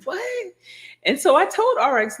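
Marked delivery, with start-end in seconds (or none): 0.0-0.5 high, soft disbelieving "What?"; a stunned, airy "What?" pitched way up; mock shock at the salon. Her own shocked reaction.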